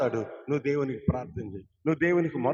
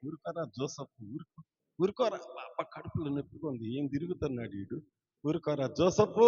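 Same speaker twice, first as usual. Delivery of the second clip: put-on soft, quieter soothing of the baby in the womb; hushing mother; 5 dB quieter than usual. Pastor imitating the pregnant mother hushing baby Joseph, softer. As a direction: coax the kicking baby to settle down. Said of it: "అని చెబుతుంది".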